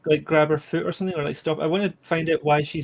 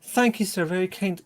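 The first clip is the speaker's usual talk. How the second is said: polite thanks; 3 semitones higher than usual. Acted. Character thanks the worker.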